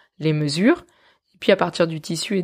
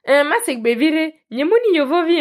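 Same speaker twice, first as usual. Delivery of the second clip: put-on French accent; 8 semitones higher than usual. Learner answering locals in Mina, French accent. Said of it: "je le dis avec mon meilleur accent français".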